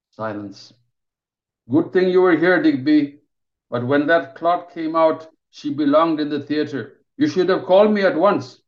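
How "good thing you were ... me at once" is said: raised, louder stern rebuke; a boss telling off his junior; scolding senior surgeon. Acted.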